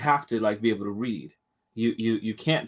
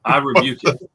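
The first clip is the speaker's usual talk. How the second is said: fierce commanding prayer; 2 semitones higher, 6 dB louder than usual. Pretend. Mock preacher rebuking spirit.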